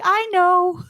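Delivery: high, starstruck giggly gushing; high-pitched, laughing fangirl excitement; giddy fangirl. Retold or imitated. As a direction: gush like a fan meeting an idol. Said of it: "so giddy and I fangirled".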